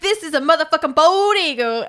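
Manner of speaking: high, bragging show-off voice; hammed-up boastful hero; mock proud show-off. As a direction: brag about your eagle. Retelling character showing off.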